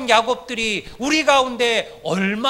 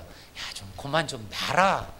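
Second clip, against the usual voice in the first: hushed, softer pleading voice, opening on a whisper; God begging Jacob to let go, hushed; 3 semitones lower, 3 dB quieter than usual. Retold or imitated. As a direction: beg quietly to be let go. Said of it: "지금 하나님이 사정하는 거예요".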